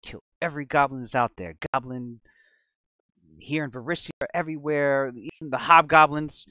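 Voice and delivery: put-on a girl's vow of revenge swelling up; mild building vow. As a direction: swear it, growing fiercer. Girl vows revenge.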